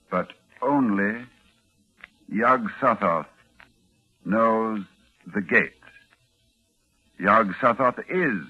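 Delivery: put-on slow, halting incantation read from an old book; slow solemn reading. Doctor reading the forbidden Latin aloud, slow and grave. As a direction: weigh each dark phrase as he translates. Armitage reads the Necronomicon aloud.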